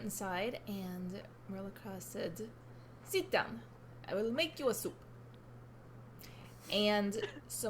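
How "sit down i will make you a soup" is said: a hint of Russian accent, curt command. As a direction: order him to sit in a light Russian accent. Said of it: "I put full force on that accent".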